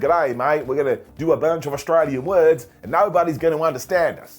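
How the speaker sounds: hammed-up Aussie accent, badly faked; bad Australian accent. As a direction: put on a terrible Australian accent. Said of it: "that's the worst Australian accent anybody has ever heard".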